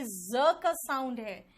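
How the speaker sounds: drawn-out buzzing z in "ज"; buzzed z sound. Shown as a demonstration. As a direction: say "ज" as a voiced z, slowly. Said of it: "जेड का जो sound है".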